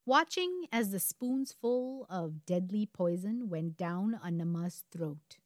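slowing, ominous storyteller; story narration. A narrator's reading. Host describing the poisoning, story narration. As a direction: draw out the end for suspense.

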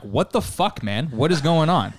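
high, exasperated disbelief, breaking into a laugh; mock bewildered executioner; baffled outburst. Guards baffled by third survival.

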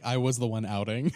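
teasing through a laugh; a joking jab, half laughing; laughing mock quote.

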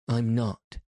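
short and resolute; decided. A narrator's reading. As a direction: state it with decision. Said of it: "he said it with such decision".

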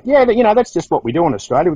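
high, offhand no-big-deal reply; breezy shrug. Retold or imitated. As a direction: brush it off lightly. His own breezy reply.

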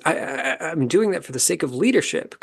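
mock a flustered stammer; a hint of defensive stammering; imitating stammer. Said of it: "starts stammering and looks frustrated".

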